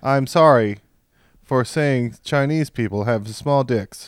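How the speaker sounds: slow robotic chatbot apology. Pretend. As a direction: say it like a stiff AI robot. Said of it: "Chat G P T robot voice".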